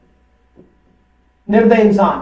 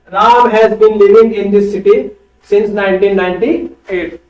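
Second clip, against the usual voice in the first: slow answer read; 2 semitones lower, much slower than usual. Shown as a demonstration. Teacher reads corrected answer sentence.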